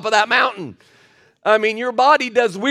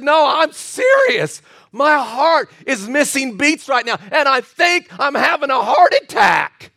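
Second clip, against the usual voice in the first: raised, drawn-out mock alarm; imitated panicking lady; 3 semitones higher than usual. Sick lady tells the preacher of her heart, mock alarm. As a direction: insist on it like the worried lady. Acting out lady's panicked protest.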